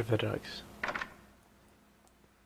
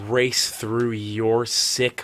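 mock scolding; 3 semitones lower, slower than usual. Mock scolding rant continues.

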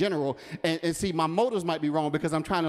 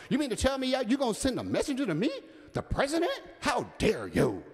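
1 indignant Naaman; 5 semitones higher than usual. Acted. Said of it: "Naaman was furious".

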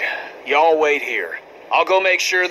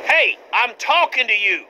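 angry shout; 5 semitones higher than usual. Acted. Angry man demands an answer.

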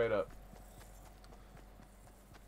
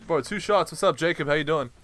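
hyped up; 4 semitones higher, 8 dB louder than usual. Real, not acted. Greeting viewers after a kill.

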